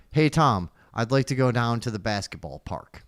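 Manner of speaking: Scottish accent. Shown as a demonstration. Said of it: "All right, I'll do Scottish".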